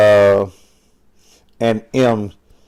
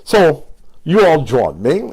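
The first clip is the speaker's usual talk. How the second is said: slower, careful, put-on proper "So you all join me"; college tone; 2 semitones higher, slower than usual. Shown as a demonstration. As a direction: try to sound educated and formal. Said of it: "Let me see if I can get my college tone".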